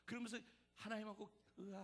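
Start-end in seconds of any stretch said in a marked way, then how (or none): 1.6-1.8 muted little "aah"; a hushed imitation of a yell; quiet, subdued cry. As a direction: keep the cry small and private. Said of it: "하는 동안에 조용히 교제를 하고".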